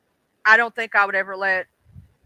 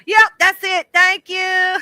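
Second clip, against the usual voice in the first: high, bright thank you; excited thanks; 9 semitones higher, 6 dB louder, slower than usual. Real, not acted. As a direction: thank them with a lift.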